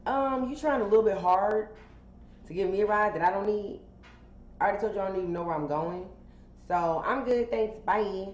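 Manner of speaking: a skeptical stranger turning down a ride; sceptical normal person. Retold or imitated. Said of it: "A normal person might be like".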